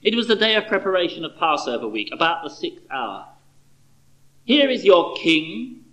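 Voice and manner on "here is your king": slow, deliberate proclamation; Pilate presenting. Acted. Pilate slowly presenting Jesus to the crowd, proclaiming. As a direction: hold up the prisoner slowly, Pilate style. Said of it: "Pilate said to the Jews".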